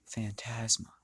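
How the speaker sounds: breathy whisper of the name. Acted. Belle murmuring the assassin's name to himself in a whisper. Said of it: "Belle then just says".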